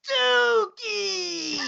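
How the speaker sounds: high, loud comic yell; shouted Dookie. Pretend. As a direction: blurt it out as a silly yell. Punchline shouted into the joke.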